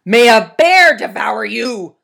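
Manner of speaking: loud furious shout at the horse; angry yell. Acted. Peasant furiously yelling at his plowing horse. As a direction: curse the horse at full voice. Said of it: "He yelled".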